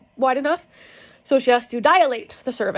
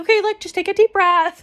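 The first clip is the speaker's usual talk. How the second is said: calm doctor; 10 semitones higher, 6 dB louder than usual. Retold or imitated.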